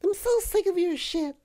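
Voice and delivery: very high falsetto woman's complaint; girl voice. Acted. Guy scolding his cohost in a falsetto woman's voice. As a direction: whine it like a fed-up actress.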